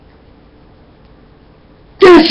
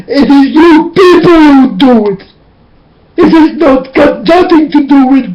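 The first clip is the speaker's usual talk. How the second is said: crying; 3 semitones higher than usual. Real, not acted. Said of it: "I can start to cry directly".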